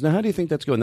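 light imitation of the same words; impression of him. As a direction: copy his line with a small lift. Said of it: "He goes".

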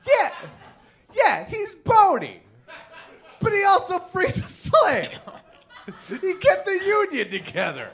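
high, loud, laughing exclaim; laughing shout of mock outrage; laughing protest. Real, not acted. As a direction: defend the answer while cracking up. Laughing defending Lincoln hug.

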